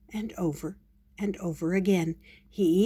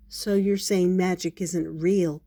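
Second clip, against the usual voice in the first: mildly deflated question; understated disappointment; disappointed. Acted. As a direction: check it, a little let down. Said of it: "Paddington said disappointedly".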